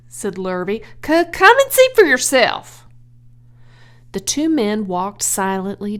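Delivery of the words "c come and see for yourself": higher, louder stuttering reply; shaken stammer. Acted. Lurvy answers his boss, stammering and shaken. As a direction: stumble over it, rattled.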